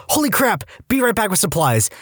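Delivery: high, startled exclamation; startled nurse. Retold or imitated. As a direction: jolt up in pitch, alarmed. Nurse sees reopened incision.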